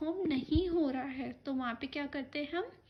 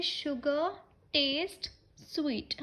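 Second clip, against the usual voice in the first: "Sugar" "taste" "sweet" spoken slowly, each word apart with a pause; slow dictation of the correct form; much slower than usual. Shown as a demonstration. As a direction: dictate the right sentence one word at a time. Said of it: "तो हम बोलेंगे".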